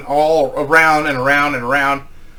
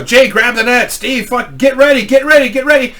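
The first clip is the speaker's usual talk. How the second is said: loud, high urgent orders shouted across a boat; rising, frantic shouted commands; barked commands; 8 semitones higher, 5 dB louder than usual. Retold or imitated. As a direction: yell out orders while chasing the fish. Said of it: "barking out commands".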